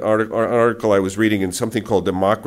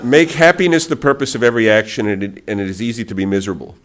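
a laughing, louder fake Chinese accent; 3 dB louder than usual. Shown as a demonstration. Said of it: "repeat that in a fake Chinese accent".

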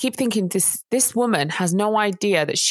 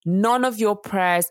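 slow cold judgement. Retold or imitated. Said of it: "She said to her".

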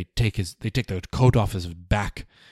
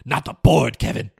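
panicked protest; 5 dB louder than usual. Real, not acted. Reacting in mock panic.

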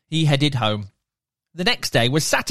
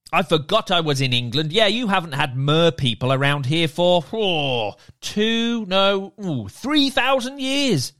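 merman; 2 semitones higher than usual. Acted. Merman character voiced.

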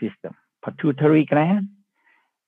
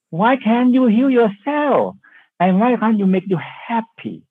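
rhetorical challenge; 8 semitones higher than usual. Real, not acted. Teacher urging the listeners, emphatic high challenge. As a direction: lift the question and lean on it.

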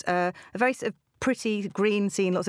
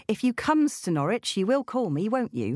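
bad Norfolk accent; 2 semitones higher than usual. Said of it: "she writes it in her accent".

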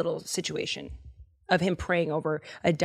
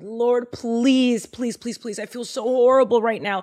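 high pleading, voice straining upward; desperate prayer; 5 semitones higher than usual. Acted. Elijah begs the Lord for the boy, desperate high plea. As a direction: beg the Lord, near tears. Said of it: "prays to the Lord".

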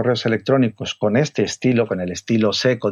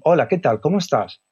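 friendly greeting; 4 semitones higher than usual. Shown as a demonstration. Models a friendly email opening.

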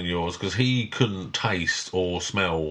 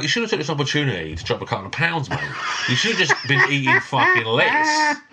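laughing teasing; 5 semitones higher than usual. Retold or imitated. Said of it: "I was like".

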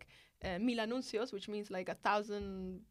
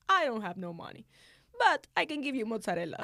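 put-on a light southern Italian accent, a bit louder and brisk; 7 dB louder than usual. Italian shopkeeper offers mozzarella instead of money, in a light southern Italian accent. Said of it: "in, like, very Italian, like, southern accent".

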